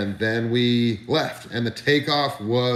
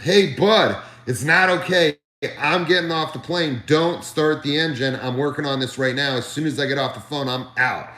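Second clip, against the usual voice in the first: high, loud mock-indignant retort, easing off; retold loud refusal; 4 semitones higher than usual. Panicking passenger answering the pilot's reassurance, loudly indignant. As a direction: throw it back at him, pitched up in protest. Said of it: "I was so loud on the phone".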